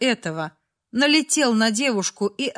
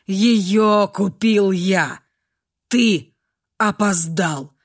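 low, slow, icy statement to a rival; flat cold finality; 3 semitones lower, much slower than usual. A narrator's reading. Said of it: "холодным голосом произнёс защитник". (холодным голосом)

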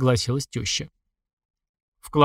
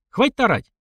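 sharp rebuke; 10 semitones higher than usual. A narrator's reading. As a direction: cut her off hard. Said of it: "прикрикнула на неё Анна Григорьевна".

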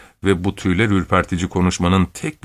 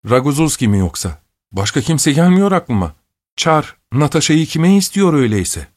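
higher, quick, eager list of suitors; old aunt's high, eager guessing; 6 semitones higher than usual. Acted. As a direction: rattle off names, rising in excitement.

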